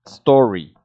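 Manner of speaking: imitated Scottish accent, drawn-out vowel. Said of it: "has the accent more, more strong".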